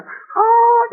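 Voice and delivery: a sudden high squeal of glee; mock gleeful exclamation; high delighted ah. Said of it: "좋다고 희덕거리고".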